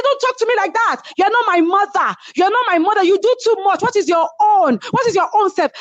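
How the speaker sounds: high-pitched imitation of a furious roommate; angry retort. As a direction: mimic her shrill anger. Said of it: "She said".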